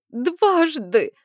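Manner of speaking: accusing cry; hurt outburst. A narrator's reading. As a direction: throw the word at him.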